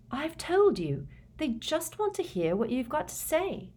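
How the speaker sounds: high, gentle reassuring voice; soothing. A narrator's reading. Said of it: "said Hermione soothingly".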